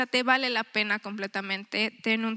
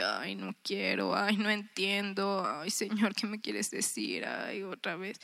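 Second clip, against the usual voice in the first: reluctant sigh; 6 dB quieter, slower than usual. Retold or imitated. Reluctant self at Bible reading.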